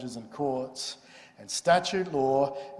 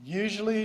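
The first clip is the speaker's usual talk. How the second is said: "Usually" set apart with firm emphasis; stress on Usually; 7 semitones higher than usual. Shown as a demonstration. Lecturer explains parliament's make-up as asked, emphasising "Usually". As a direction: punch the opening word "Usually". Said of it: "want me to emphasise the word usually".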